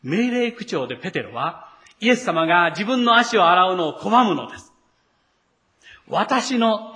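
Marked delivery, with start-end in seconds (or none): 6.1-6.9 私の pushed out, emphasized; stress on 私の. Shown as a demonstration. Preacher showing Peter's emphasis, stressed 私の. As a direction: lean hard on 私の. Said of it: "という言葉に強調があります".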